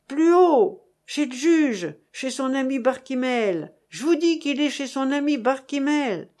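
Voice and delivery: loud insistent shout from below. Acted. Father Talon directing soldiers to the judge's home, insistent shout.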